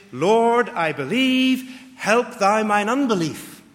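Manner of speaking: loud, high cry for help, slow on believe. Shown as a demonstration. Preacher reading the King James words as a loud, high, desperate cry. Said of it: "This is a cry for help".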